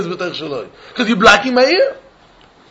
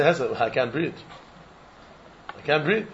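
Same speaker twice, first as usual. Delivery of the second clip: mock complaint; 6 semitones lower, 12 dB quieter than usual. Acted neighbor complaining about wall.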